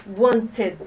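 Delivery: "wanted" with the extra syllable "-ted"; "wanted" with the ending -id said in full; model word. Shown as a demonstration. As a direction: say "wanted" in two clear syllables, want-ed. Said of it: "we're going to pronounce it".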